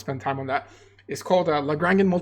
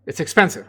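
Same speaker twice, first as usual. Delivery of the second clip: "expensive" pushed out louder and weighted; stress on expensive; 5 dB louder than usual. Shown as a demonstration. Lecturer warning students the computation costs a lot, hitting "expensive". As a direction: lean hard on "expensive" so it sticks. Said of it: "I'm emphasizing the word expensive".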